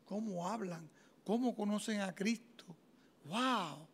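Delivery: soft, breathy wonder; hushed awe. Retold or imitated. A student amazed by classmates, in hushed awe. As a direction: marvel under your breath. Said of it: "Y yo".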